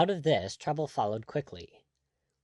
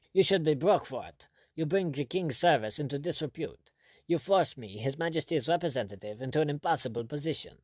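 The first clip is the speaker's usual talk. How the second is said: irritated; 4 semitones higher than usual. Acted. General turning his irritation on the governor, sharp rebuke. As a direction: bite the words with irritation. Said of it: "sharp fangs of his irritation".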